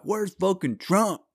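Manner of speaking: high, slow mock-whiny voice; hammed-up high mockery of the host; mocking whine. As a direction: sneer it like a clueless TV host. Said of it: "He was like".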